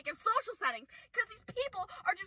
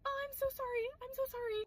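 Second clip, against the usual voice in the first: soft, much quieter people-pleaser apology; meek apology; 5 semitones higher, 10 dB quieter than usual. Retold or imitated. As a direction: apologise meekly, almost under your breath. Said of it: "I'd still be like".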